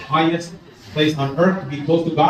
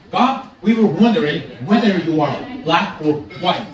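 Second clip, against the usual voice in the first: mock English accent, formal question to God. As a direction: politely enunciate in a put-on English accent. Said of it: "with a perfect English accent says".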